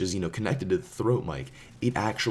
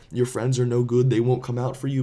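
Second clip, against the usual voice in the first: taunt; 4 semitones higher, 6 dB louder than usual. Retold or imitated. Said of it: "he's telling Carlo".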